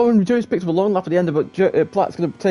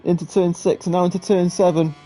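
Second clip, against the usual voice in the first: excited live play-by-play, pitched up; motorsport commentator; 4 semitones higher than usual. Real, not acted. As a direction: call the last-lap battle with rising urgency. Live race finish, rising pitch.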